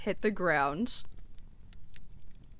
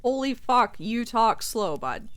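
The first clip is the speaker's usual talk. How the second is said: put-on 1 Canadian accent. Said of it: "why he turned Canadian".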